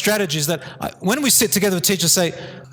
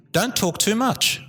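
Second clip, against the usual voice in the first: slow emphasis; 4 semitones higher, slower than usual. Real, not acted. Repeats advice for emphasis.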